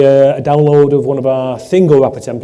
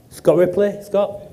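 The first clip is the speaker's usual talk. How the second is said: excited announcement; 7 semitones higher, slower than usual. Real, not acted. Calling out the winner.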